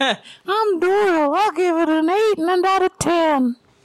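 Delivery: high, slow, thin voice impression. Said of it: "your Doyle sounds way too thin".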